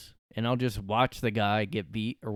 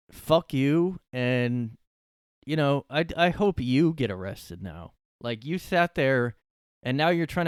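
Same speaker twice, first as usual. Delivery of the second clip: angry outburst; 4 semitones higher, 5 dB louder than usual. Real, not acted. Cursing out the man who filmed.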